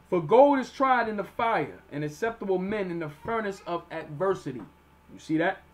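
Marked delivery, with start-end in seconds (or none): 0.1-4.6 emphatic Bible reading; scripture reading. Acted. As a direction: launch the verse strongly, then settle. Reads scripture aloud.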